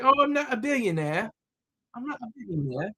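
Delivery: a quick, lightly done British impression of the author; imitating British accent. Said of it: "I'm gonna stop with her accent".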